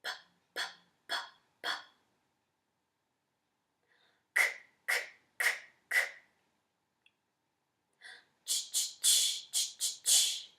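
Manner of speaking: bare, voiceless consonants in rhythmic pulses; crisp demonstrated pulses of "p", "k", "ch"; consonant drill. Shown as a demonstration. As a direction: pop out "P", "K" and "Ch" evenly, no vowels. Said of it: "and I go first".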